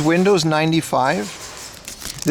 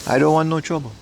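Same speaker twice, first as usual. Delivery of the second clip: imitating Jackie Chan; faster than usual. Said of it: "Jackie Chan doing Jackie Chan things".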